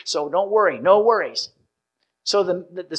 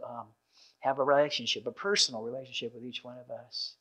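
soft, quieter prayer voice; 4 dB quieter than usual. Acted. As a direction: pray gently for the congregation. Leads a closing prayer.

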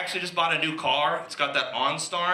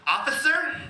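higher, seductive come-on voice; sultry operator voice; 3 semitones higher than usual. Retold or imitated. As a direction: plead and flirt with the officer. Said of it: "and he said".

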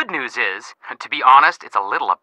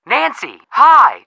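excited greeting; 8 semitones higher, 5 dB louder, much slower than usual. Acted. Relieved it is Nancy, not client.

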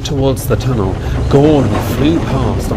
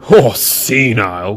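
groan. Acted. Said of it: "groaned Gordon".

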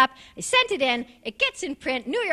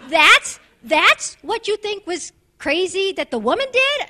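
incredulous; 4 semitones higher, 4 dB louder than usual. Retold or imitated. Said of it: "And I'm like".

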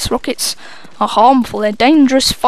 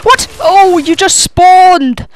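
surprised; 5 semitones higher, 5 dB louder, much slower than usual. Real, not acted. Annoyed gamer at sudden spawn.

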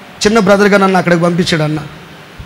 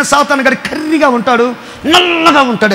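put-on old pastor's words; 5 semitones higher than usual. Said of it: "అనేవాడు".

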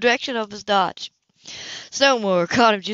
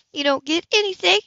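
high angry shout; 11 semitones higher, 5 dB louder than usual. Acted. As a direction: yell it while struggling. Heroine struggling under him.

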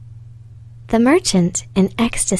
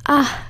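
higher, restrained "ah" of dismay; anguished cry; 6 semitones higher than usual. A narrator's reading. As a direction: cry out mildly, pitched up. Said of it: "cried the merchant".

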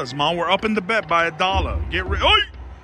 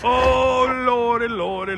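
excited shout; 6 semitones higher, slower than usual. Real, not acted. Gambler watching the reels, shouting high in hope. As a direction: shout it up to the heavens. Bonus nearly hits, shouting.

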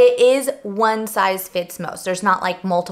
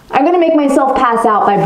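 muffled through face shield; enclosed echoing bubble voice; talking inside a helmet; 3 semitones higher than usual. Real, not acted. Seen 2: Full clear bubble helmet sealed over head throughout; R frames without it.

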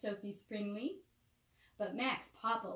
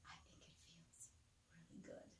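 soft unvoiced whisper, much softer; 6 semitones lower, 23 dB quieter, faster than usual. Real, not acted. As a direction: whisper it like a bedtime secret. Whispering to child at bedtime.

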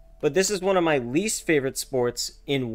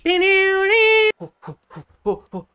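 mock disbelief; 5 dB louder, much slower than usual. Real, not acted. Mocking opponent's name in boxing.

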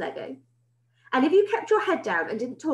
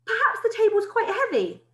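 soothing; 11 semitones higher than usual. Acted. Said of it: "soothed Missus Collins".

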